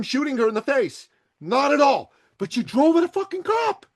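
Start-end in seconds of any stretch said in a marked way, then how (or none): 2.4-3.8 higher, shouting the accusation; rising into a real yell; outraged shout. Real, not acted. Guest furious at the woman who drove at police, shouting.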